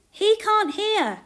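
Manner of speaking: high, loud, stretched-out call. A narrator's reading. Deaf man's friend appealing to Jesus, calling out. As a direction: call slowly on a friend's behalf. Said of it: "called a deaf man's friend".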